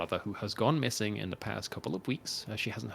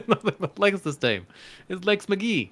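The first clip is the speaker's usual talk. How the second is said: noir detective; 10 semitones higher, 7 dB louder than usual. Acted. Repeats the noir line, laughing.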